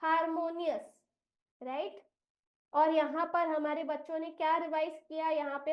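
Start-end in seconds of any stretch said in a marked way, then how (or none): 0.0-0.8 harmonious said as a pronunciation model; harmonious sounded out. Shown as a demonstration. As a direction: repeat harmonious as "har-mo-nius". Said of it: "इस शब्द का उच्चारण होगा".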